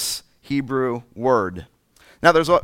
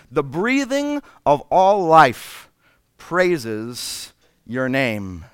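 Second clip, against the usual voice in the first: reverent prayer; much slower than usual. Acted.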